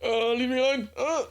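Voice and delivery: high, frantic panicked plea. Shown as a demonstration. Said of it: "type thing is, is way clearer".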